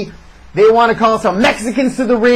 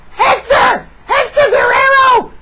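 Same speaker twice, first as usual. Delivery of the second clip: announcer shout; 13 semitones higher than usual. Retold or imitated. Host announcing Hector's entrance, big shout. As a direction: belt it out like a ring announcer.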